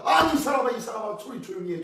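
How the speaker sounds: shouted scolding. Acted. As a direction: scold him to hush, strongest at the start. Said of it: "소리를 칩니다".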